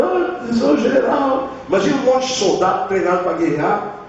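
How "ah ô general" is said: whiny, high mock wail at the general; mock crying. Preacher mocking crying soldiers with a whiny high wail. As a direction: whimper like a soldier begging, hammed-up. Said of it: "Ou chorando".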